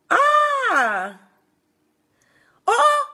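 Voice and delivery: high, loud gasp of surprise; surprised cry. Real, not acted. Host reacting to a viewer's riddle answer, surprised shout.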